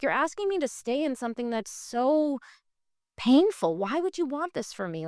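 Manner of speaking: indignant retold complaint, punching the key word; pissed-off protest. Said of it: "I was pissed".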